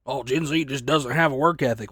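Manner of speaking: sneering mock voice of the older crowd; a hint of a condescending boomer; mocking older workers. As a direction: put on a scornful know-it-all voice. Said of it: "they wanna call us lazy pieces of shit".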